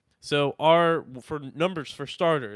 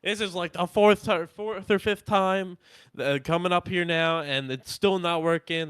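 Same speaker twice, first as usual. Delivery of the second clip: raised, higher exasperated complaint at the front desk; fed-up fiancee venting, pitch climbing; angry fiance; 5 semitones higher than usual. Retold or imitated. Fiancee scolding hotel staff about broken keys, exasperated raised voice. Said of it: "This is now angry fiance".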